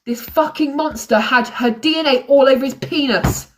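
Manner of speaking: tense, rising anger at the father; angry. Real, not acted. Ranting to viewers about Poppy's father, angry. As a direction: spit it out in real outrage. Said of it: "I'm so angry".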